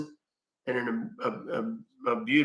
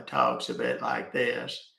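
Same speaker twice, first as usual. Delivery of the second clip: much lower, slow character voice; 3 semitones lower, 4 dB quieter, slower than usual. Shown as a demonstration. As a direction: drop way down and drag it out like a slow low guy. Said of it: "Uh, and Ty".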